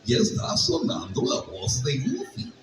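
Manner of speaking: goofy whistling cartoon voice; dopey cartoon dog voice. Shown as a demonstration. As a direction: whistle through buck teeth like Goofy. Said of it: "si yo hago esto".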